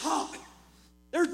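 usual speaking voice

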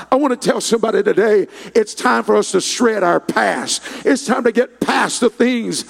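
loud, building sermon shout; loud fervent sermon climax; preaching at full force. Acted. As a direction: drive it home like a revival preacher.

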